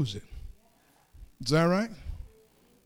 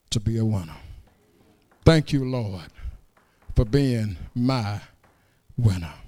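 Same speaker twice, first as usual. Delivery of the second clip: prayer. Acted. Prays aloud to the Lord.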